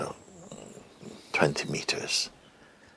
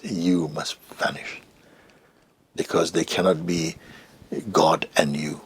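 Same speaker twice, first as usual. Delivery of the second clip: Papa G. Retold or imitated. Teacher instructing the seeker to vanish, measured pronouncement. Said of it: "He said like this".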